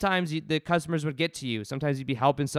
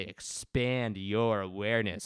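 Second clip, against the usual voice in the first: slow, lower, softer guru intoning; sarcastic enlightened-teacher voice; hammed-up spiritual wisdom, drawn out slowly; mock lofty; 5 semitones lower, 4 dB quieter, slower than usual. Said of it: "I'm just being sarcastic".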